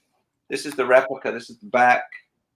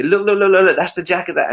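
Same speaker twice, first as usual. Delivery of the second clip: high and louder, eager pointing; excited Michael; 7 semitones higher, 4 dB louder, faster than usual. Retold or imitated. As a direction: urge them to look, bubbling over. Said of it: "nudging Janet and your grandma to say".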